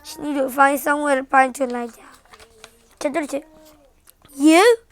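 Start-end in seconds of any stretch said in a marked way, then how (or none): 4.4-4.8 surprised. Acted.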